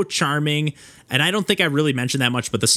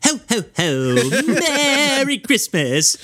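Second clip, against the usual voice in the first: high, slow, sharp mechanical Santa; sharp toy Santa; 11 semitones higher, much slower than usual. Retold or imitated. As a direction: imitate a jerky motion-sensor Santa, high and drawn out. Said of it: "just this really, like, sharp".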